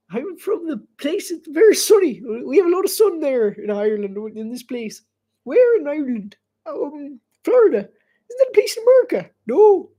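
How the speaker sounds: put-on high, comic Irish accent. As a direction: act out a chat in a high Irish lilt. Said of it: "my Irish accent".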